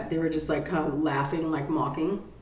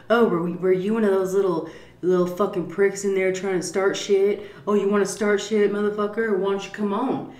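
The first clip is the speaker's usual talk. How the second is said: mock taunting; 3 semitones higher than usual. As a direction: goad him like a swaggering tough guy. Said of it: "You know, like, like that".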